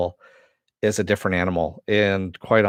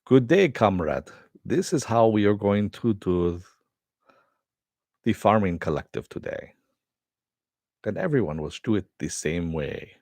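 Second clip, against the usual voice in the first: bad Eastern European accent. Joking that the director should make Eastern European films, in a bad Eastern European accent. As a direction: greet them like a Soviet farm boss, in a hammy Eastern European accent. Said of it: "my really bad, indiscriminate Eastern accent".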